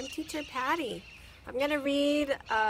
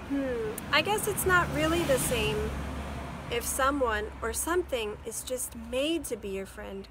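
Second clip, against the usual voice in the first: put-on thoughtful girl; 2 semitones higher, 6 dB louder than usual. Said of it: "Chrissy said".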